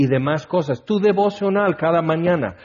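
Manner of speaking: normal talking voice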